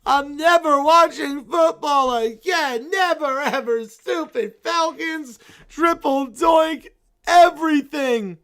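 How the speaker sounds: whining heartbroken bear fan; sulky whine. Acted. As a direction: mope and whine like a child losing. Bear sulks after crying.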